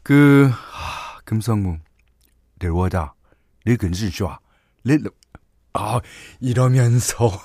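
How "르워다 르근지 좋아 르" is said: low mumbled fake Chinese gibberish. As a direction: imitate a Chinese film line in gibberish. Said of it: "가짜 중국어입니다". (가짜 중국어)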